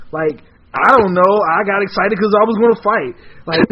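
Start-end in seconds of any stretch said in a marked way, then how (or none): 0.7-3.1 petty arguing. Acted. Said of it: "petty arguing".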